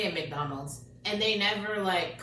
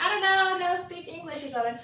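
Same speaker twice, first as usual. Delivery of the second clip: mock broken English; 8 semitones higher than usual. Imitating employee feigning no English.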